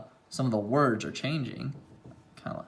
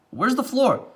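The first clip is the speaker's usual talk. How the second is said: mother asking; 10 semitones higher, 3 dB louder than usual. A narrator's reading. Mother voiced in read story.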